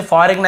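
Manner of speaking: "फॉरेन" with the silent g spoken out; memorizing mispronunciation. Shown as a demonstration. Teacher shows a memory trick for spelling, g pronounced. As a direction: sound out a g before the n of फॉरेन. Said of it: "ऐसे बोल देते हैं".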